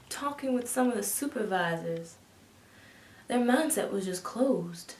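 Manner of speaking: put-on calm older woman's voice, measured; a lightly voiced older pioneer; Annie J Easley. Actress plays Annie Easley recalling her NASA years, measured storytelling. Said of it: "an homage rendition to Annie J Easley".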